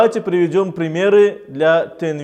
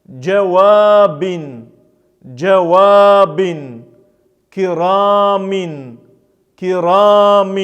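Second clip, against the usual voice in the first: measured teaching recitation; 4 dB louder than usual. Shown as a demonstration. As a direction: recite each Arabic word carefully for learners to repeat. Teacher recites example words.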